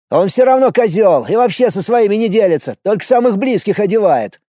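put-on young man voice. Recruit complains about rival.

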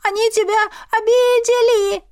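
high, aggrieved cat complaint; upset cat. Acted. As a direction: wail it like an offended cat. Familiar cat complains in her head.

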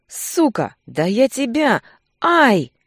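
threaten, then yelp in pain; pained outburst. A narrator's reading. Thug with his wrist crushed, cursing then yelping.

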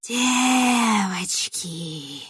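very slow, drawn-out rustling cry; eerie rustling summons; rustling witch call. Acted. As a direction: stretch the word like dry leaves calling. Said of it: "шелестела ведьма".

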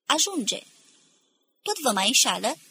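mildly yelled interruption; shouted heckle. A narrator's reading. Hidden voice in the crowd interrupts the speaker, shouting. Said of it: "striga un glas ce părea că vine".

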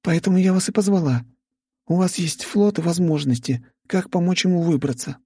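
the heiress breaks news of the crash; Vika delivering bad news. Vika voiced by narrator.

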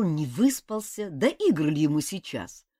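ordinary delivery, nothing marked

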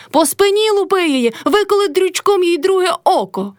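very high yell across the yard; shouting. A narrator's reading. Motrya eggs Karpo on from the yard, shrill high yell. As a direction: egg him on at the top of the voice. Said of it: "кричала з двору Мотря".

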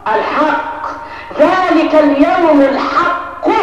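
slow stress. Shown as a demonstration. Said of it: "الحق دي عرفها ايه؟".

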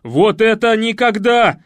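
outraged cry; shout. A narrator's reading. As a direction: bellow it while hopping in pain. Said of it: "с криком".

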